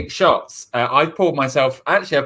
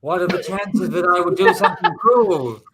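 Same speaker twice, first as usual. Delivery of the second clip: mob boss; 3 semitones higher than usual. Acted. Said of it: "biggest mob boss in New York".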